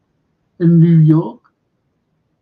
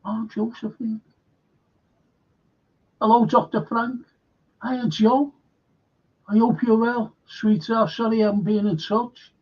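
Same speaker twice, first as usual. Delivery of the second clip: bright, raised, affectionate hello; friendly greeting; 5 semitones higher than usual. Real, not acted. Greeting viewers by name.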